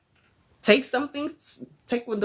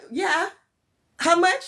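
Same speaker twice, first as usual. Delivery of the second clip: mock high client; 10 semitones higher, slower than usual. Client asking price.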